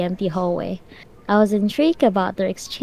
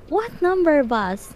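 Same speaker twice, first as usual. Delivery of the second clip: sharp demand; 6 semitones higher than usual. A narrator's reading. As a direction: press for the bus number. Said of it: "he demanded".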